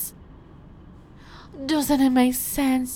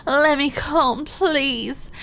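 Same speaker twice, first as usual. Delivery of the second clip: mock shouting; 4 dB louder, slower than usual. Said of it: "he was just shouting".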